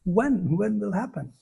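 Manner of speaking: mildly imploring, slightly lifted question; heartfelt longing. Shown as a demonstration. Teacher showing how to pray from the heart, longing. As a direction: ask it with a touch of yearning. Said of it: "should really come from the deep in the heart".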